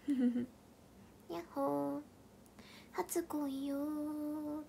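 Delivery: breathy unvoiced whisper. Real, not acted. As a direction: whisper it softly, slowly. Whispered greeting to viewers.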